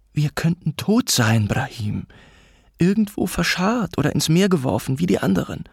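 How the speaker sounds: high, intense reproach; mother's urgent, held-in alarm; suppressed arguing. A narrator's reading. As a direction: drive home the danger without shouting. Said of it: "energisch, jedoch mit unterdrückten Stimmen".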